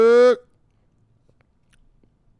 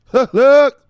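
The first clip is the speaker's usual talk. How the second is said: excited shout; 5 semitones higher, 10 dB louder than usual. Pretend. Bursts out calling mother.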